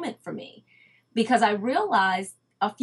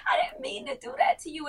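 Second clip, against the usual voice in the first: much higher, laughing through a sorry; retold apology, high and laughing. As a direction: gush an apology while laughing. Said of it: "I felt so bad".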